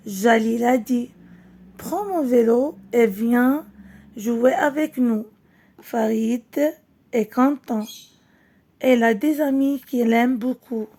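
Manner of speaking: slow, clear storybook reading for pupils; reading to children. Acted. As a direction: read it out gently to the class, word by word. Final rereading of story.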